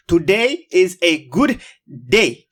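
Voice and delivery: slow, building to a punched day; said with feeling. Shown as a demonstration. Host asks viewers to feel it, says it with conviction. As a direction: feel it in your bones, lean into good day. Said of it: "say it like you feel it".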